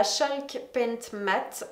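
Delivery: English product name in a French accent. Real, not acted. Vlogger names a paint to viewers, French-accented English. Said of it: "désolée pour mon accent".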